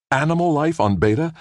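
high amazed exclamation; exclaiming. A narrator's reading. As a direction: blurt it out in astonishment. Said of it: "Brad exclaimed".

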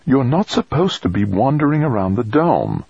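S=hissing serpent dragon; hissing whisper. A narrator's reading. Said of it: "scolded in a sibilant whisper".

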